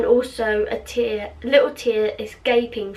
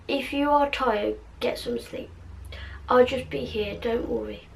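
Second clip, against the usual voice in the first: soft reassurance; 7 dB quieter than usual. Acted. Acted tender bedside reassurance in story.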